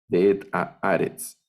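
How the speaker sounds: De et a Aretz, stress on A of Aretz; lectura con acentos. Shown as a demonstration. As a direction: repeat De et a Aretz, falling after the stressed A. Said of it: "Entonces ya puedo leerlo". (De et a Aretz, con acento en la A de Aretz)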